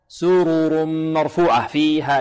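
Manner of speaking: سرر recited slowly with each r fully vowelled; slow careful recitation, neither r swallowed; both ras distinct. Shown as a demonstration. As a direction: chant سرر slowly, sounding both r's. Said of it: "لا بد من إيضاحهما".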